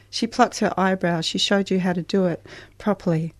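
put-on brisk, matter-of-fact reading of a teenage voice; story reading. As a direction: read it as a rush of facts with little pause. Author reads from her novel.

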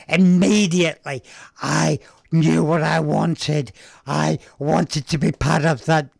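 tired husky voice, a touch emotional. Real, not acted. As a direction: voice going husky, slowed. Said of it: "my voice is starting to get a bit husky".

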